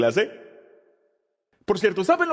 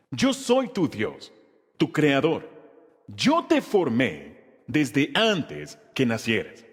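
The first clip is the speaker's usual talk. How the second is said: slow verse reading; 4 semitones lower, much slower than usual. Acted. Pastor reads memory verse aloud.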